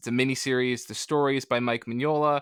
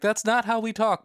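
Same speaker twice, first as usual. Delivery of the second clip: higher mock-British protest; imitated British objection; 9 semitones higher than usual. Guest quoting Brits who deny their accent, mock British protest. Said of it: "And they're like".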